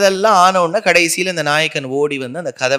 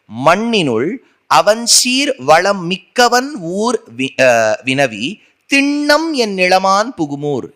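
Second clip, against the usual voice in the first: drawn-out devotional chanting of the verse; slow sung-speech recitation of a Tamil hymn; 3 semitones higher, slower than usual. Acted. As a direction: chant it slowly, savouring each word.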